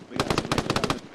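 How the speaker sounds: hushed urgent whisper; whispered warning. Real, not acted. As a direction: whisper it tensely. Warning of approaching enemies.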